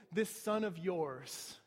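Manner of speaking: slow, cold distancing words; disdainful. Retold or imitated. Resentful older son disowning his brother, slowly and coldly. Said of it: "His way of saying that is".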